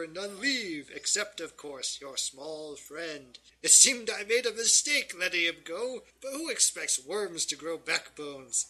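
lightly hammed-up storybook villain, taunting; gloating villain. Villain inviting trapped adventurers to meet his pets, gloating. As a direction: toy with your visitors like a villain.

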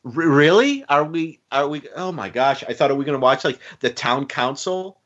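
incredulous thought. Retold or imitated. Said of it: "I'm sitting there thinking".

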